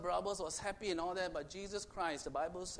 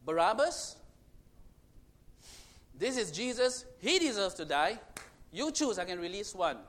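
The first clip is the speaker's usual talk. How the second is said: Pilate offering choice; 2 semitones higher, 6 dB louder than usual. Retold or imitated. Pilate offering the crowd Barabbas or Jesus, raised voice. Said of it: "He said".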